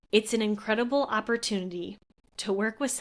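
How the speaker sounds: tearing up mid-quote, voice catching; fighting back tears on the words; choked-up, emotional quote; voice breaking. Real, not acted. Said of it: "I'm crying again".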